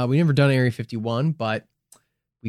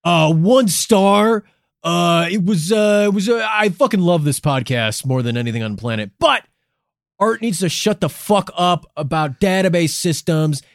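louder, hammed-up complaining listener; mock bad reviewer; 5 semitones higher, 4 dB louder than usual. Host voicing a listener's one-star review, mock annoyed and loud. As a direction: play a fed-up fan leaving a review.

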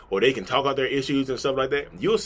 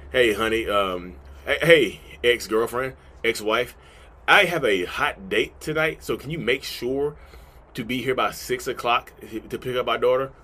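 sugary mock request; slower than usual. Message to narcissist ex.

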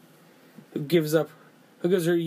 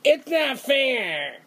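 imitating little girl; 8 semitones higher, much slower than usual. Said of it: "she thought".

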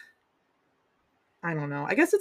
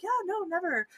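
firm refusal; 11 semitones higher, 4 dB quieter than usual. Retold or imitated. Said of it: "And you're like".

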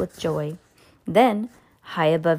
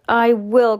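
loud, higher-pitched assent; eager cry; 5 semitones higher, 6 dB louder than usual. A narrator's reading. Mister Gregg giving the duck his word, eager cry. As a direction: agree emphatically, desperate to be believed. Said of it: "cried Mister Gregg".

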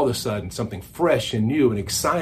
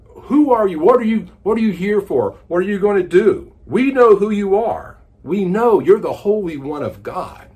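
raised, high, loud demon voice; demon crying out; 6 semitones higher, 6 dB louder than usual. Acted. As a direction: cry out as the possessed man. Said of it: "he begins crying out".

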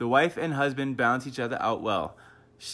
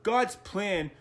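mocking Cody; 9 semitones higher than usual. Husband mocks Cody on the podcast, high mock voice. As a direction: ham up Cody's preachy tone. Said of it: "And then Cody's going".

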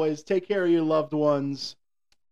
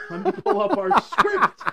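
loud, very high cracking yell with laughter; 6 dB louder than usual. Real, not acted. Co-host offering to pull up the script, voice cracking. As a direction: yell it slowly until the voice breaks. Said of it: "Another voice crack".

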